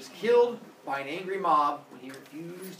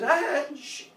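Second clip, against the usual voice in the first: hushing; 11 semitones higher, 8 dB louder than usual. Acted. Aesop hushes the crowd.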